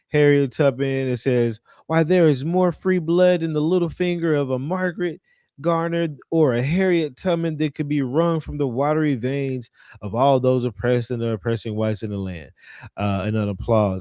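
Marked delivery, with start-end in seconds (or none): none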